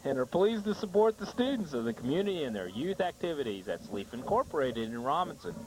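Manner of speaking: local sponsor announcement; sponsor ad read. Acted. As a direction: read the sponsor credit with a lilting sell. Reads sponsor ad.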